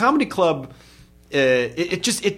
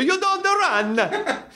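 very high, very slow scold; scolding teacher; much slower than usual. Pretend. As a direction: drag out the scold. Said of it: "mock teacher scolding".

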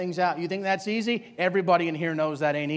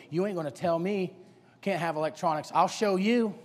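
defiant. Acted. Youngster bucking authority, subdued defiance. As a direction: grumble back under your breath. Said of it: "just constantly just bucking authority".

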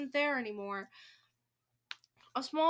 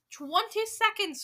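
high, loud, stretched countdown call; witch's drawn-out announcement; crying out; 9 semitones higher, 5 dB louder, slower than usual. A narrator's reading. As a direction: call out the time slowly. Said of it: "cried the Grand High Witch".

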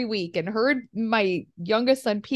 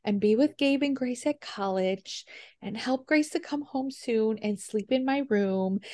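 soft, slow little prayer; child's prayer; 6 dB quieter, slower than usual. Retold or imitated. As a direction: pray gently like a small girl at bedtime. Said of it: "She prays for you".

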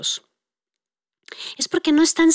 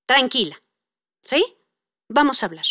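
calming, slightly lowered tone; lowering the voice. Retold or imitated. Mom calms angry daughter, voice coming down. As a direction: ease down to soothe a child. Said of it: "yo voy bajando el tono de voz".

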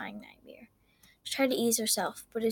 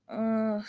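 soft moan. Acted. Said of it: "she moaned".

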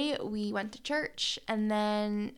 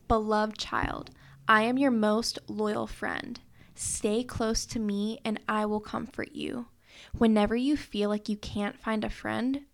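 devotional reading; 3 dB louder than usual. Acted. Reads devotional scripture.

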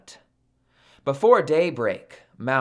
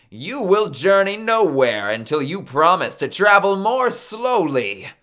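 higher, firm captor's voice; firm ultimatum; 5 semitones higher, 4 dB louder than usual. Acted. Maui sets terms for captive Sun, firm and raised.

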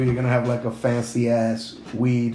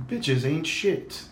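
posh British Patrick Stewart; 6 dB quieter, much slower than usual. Pretend. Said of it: "like Patrick Stewart".

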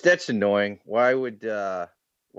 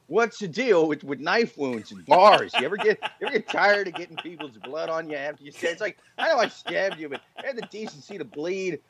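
hack comedian voice; 3 semitones higher than usual. Pretend. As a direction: ham up the observational comic. Mock stand-up knife bit.

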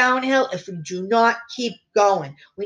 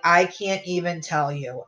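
ordinary delivery

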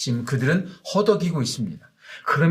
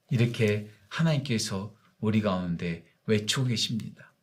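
ordinary talk

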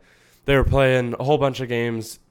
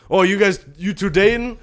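high, loud, nosy Boston guy; Rocco's Boston accent; 9 semitones higher, 7 dB louder than usual. Retold or imitated. Uber driver prying whether two passengers are dating, mock Boston accent. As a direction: imitate a chatty Boston driver, pitched way up. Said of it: "Boston guy".

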